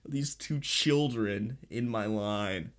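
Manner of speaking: slow, weary mock cashier; fed-up cashier. Imitating a fed-up cashier annoyed at two customers, slow and weary. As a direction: drag it out like she's done with her day. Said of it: "She was like".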